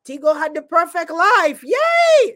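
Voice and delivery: mock cheerful squeal up high; fake-happy sarcastic yay. Ironic aside about host's life.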